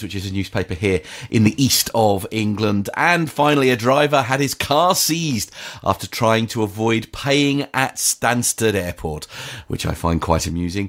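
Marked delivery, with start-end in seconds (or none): 3.0-9.2 measured newsreader delivery, starting higher; news headline read. Acted. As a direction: read out the quirky closing news item.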